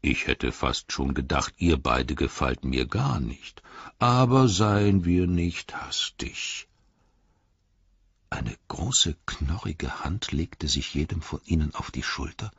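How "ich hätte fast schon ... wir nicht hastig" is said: slow ancient tree giant. Acted. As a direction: speak like a patient old tree sizing up strangers. Treebeard's first words to hobbits. (langsame, tiefe Stimme eines alten Baumriesen)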